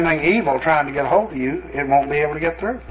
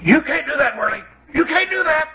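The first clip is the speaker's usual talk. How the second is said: high-pitched imitation of an alarmed demon; mock demon outburst, jumping even higher on the repeat; panicked demon; 12 semitones higher than usual. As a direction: squeal it in protest, far above your own voice. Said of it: "that demon jumped like he was shot".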